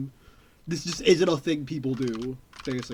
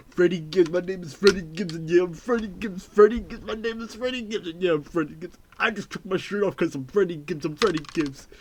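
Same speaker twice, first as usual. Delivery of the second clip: lightly voiced rapper, laughing through it; barely-put-on rapper boast; a hint of a rapper voice; impression of a rapper. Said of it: "Do you like my rapper impression".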